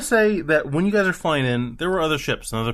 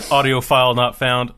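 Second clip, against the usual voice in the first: laughing; 2 semitones lower, 4 dB louder than usual. Real, not acted. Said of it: "that was supposed to be an evil laugh".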